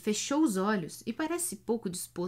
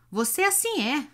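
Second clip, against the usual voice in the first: higher, louder sneering echo; mocking echo; 6 semitones higher, 4 dB louder than usual. A narrator's reading. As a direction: mimic his words with scorn. Hunchback mocks Iona's phrase.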